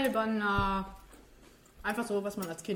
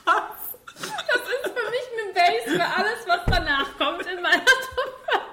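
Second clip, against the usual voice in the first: laughing mimicry; 10 semitones higher, 9 dB louder, slower than usual. Mocking the other host's words.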